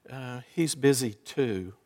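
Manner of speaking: put-on hushed little boy; child whispering. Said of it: "Still whispering".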